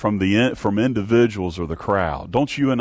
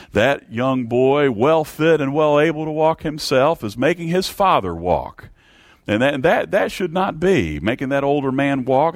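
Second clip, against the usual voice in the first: imitated scandalised onlookers, pitched high; indignant townsfolk; 5 semitones higher than usual. Townspeople scold the boy in story.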